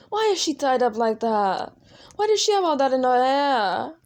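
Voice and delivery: worked-up character complaint; indignant questioning. Acted. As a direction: demand answers, rising in pitch and volume. Valentino protests at what he sees.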